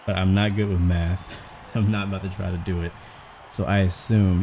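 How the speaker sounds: talking out of breath; puffing between phrases. Real, not acted. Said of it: "you can tell I'm out of breath right now".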